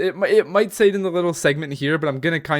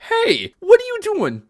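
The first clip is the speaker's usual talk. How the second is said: much higher, a cartoonish scolding YouTube; mock YouTube voice; 4 dB louder than usual. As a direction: squeak it like a bossy robot moderator. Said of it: "Imagine YouTube being like".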